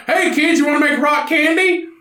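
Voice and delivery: put-on high coaxing pitch to kids; shady dealer voice. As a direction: lure the kids in, high and sly. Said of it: "It's like".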